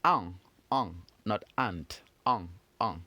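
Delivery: "an" as one French sound, no T at the end; French "an", T dropped; demonstrated nasal French "an". Shown as a demonstration. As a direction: say "an" with the T silent, unlike "ant". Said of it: "is pronounced".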